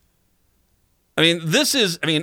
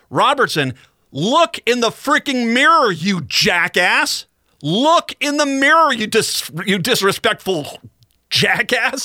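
real angry outburst; 5 semitones higher than usual. Real, not acted. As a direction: tell her off in real anger. Host berates vice chair on air.

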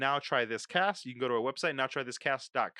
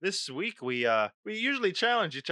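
hammed-up Irish lilt; Irish accent; 3 dB louder than usual. Podcast host greeting his co-host as a lad, in a put-on Irish accent. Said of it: "why do an Irish accent?".

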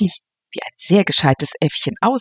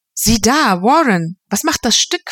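higher, hearty greeting of a jovial host; a hint of a breezy gentleman; 5 semitones higher than usual. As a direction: boom a cheerful hello across the room. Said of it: "fragte Norman Knight".

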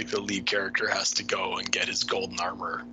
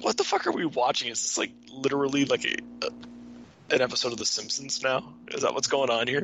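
baffled; 4 semitones higher than usual. Retold or imitated. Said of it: "I'm like".

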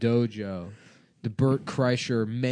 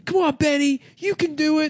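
much higher mock encouraging dad; dad cheering. Host voices a dad at the half pipe, higher. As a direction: cheer the kid on. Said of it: "He's like".

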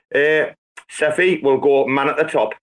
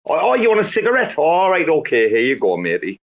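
cigarette exchange. Retold or imitated. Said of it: "it's always like".

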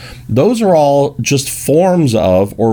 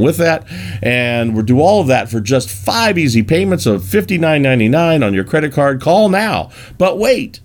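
infomercial; 2 semitones higher than usual. Retold or imitated. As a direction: pitch climbing into a hyped finish. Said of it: "infomercial that says".

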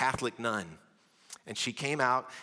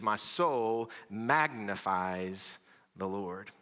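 slow reverent quote; 3 semitones lower, much slower than usual. Retold or imitated. Quoting Mary, slow.

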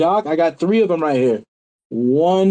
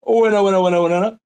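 auctioneer; 3 semitones higher, much faster than usual. Pretend. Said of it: "that cool ass, um, auctioneer voice".

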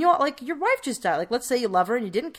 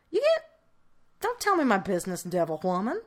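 indignant redneck voice. Retold or imitated. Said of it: "And Alabama goes".

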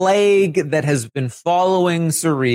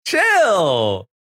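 mock Cirie scolding; 13 semitones higher, much slower than usual. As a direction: play Cirie shouting at Felicia to stop. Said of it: "Cirie's been like".

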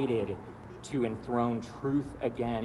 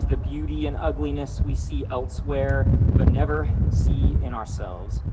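prayer. Acted. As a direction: pray it over them gently. Leads closing prayer.

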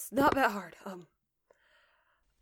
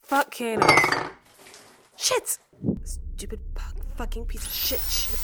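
angry outburst; 3 semitones higher, 7 dB louder than usual. Acted. Sudden outburst after whispering.

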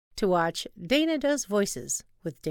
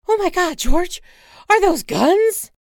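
much higher, louder, panicked; alarmed shriek; 11 semitones higher, 13 dB louder than usual. Acted. Wife spotting guns, panicked shriek. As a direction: gasp in alarm.

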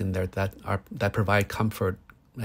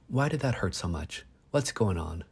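gentle self-talk; 6 dB quieter than usual. Retold or imitated. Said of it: "It should be more like".

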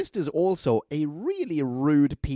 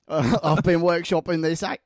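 higher-pitched, overdone Australian vowels, badly faked; bad Australian accent; 4 semitones higher than usual. Actor workshopping his accent at the reading, bad Australian accent. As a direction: lean hard into a hopeless Australian accent. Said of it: "I can't do Australian accent".

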